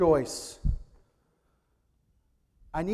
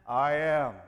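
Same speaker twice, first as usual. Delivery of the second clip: swaggering I am; 6 semitones lower than usual. Acted. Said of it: "He had the man swagger too".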